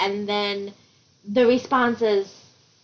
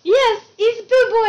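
laughing; 10 semitones higher, 5 dB louder than usual. Real, not acted. Laughing at nickname.

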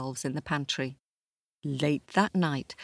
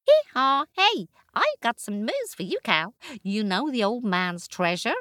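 much higher, brisk braying donkey; 7 semitones higher, 3 dB louder than usual. Acted. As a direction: bray and chatter cheerfully. Donkey character.

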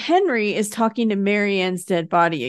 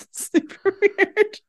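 amused, slow aside; 11 semitones higher, slower than usual. Real, not acted.

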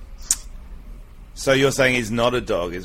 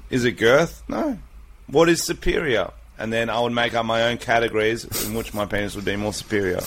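debate voice; 2 semitones lower than usual. Shown as a demonstration. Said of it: "if I was in a debate".

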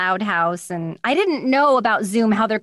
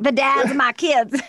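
lightly put-on trashy mom, pitched up; mock trashy voice; 4 semitones higher than usual. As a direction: play up how trashy it sounds. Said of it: "sounds like such a trashy thing".

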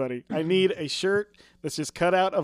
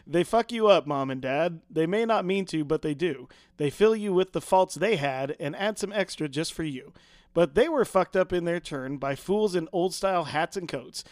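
poem recital. Shown as a demonstration. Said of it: "so I'm gonna try, um, try to do this".

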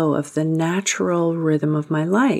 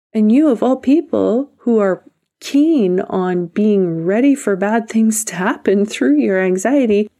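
a coach calling out the listener, blunt and higher; blunt tough love; 3 semitones higher than usual. Acted. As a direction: call them out with tough love.

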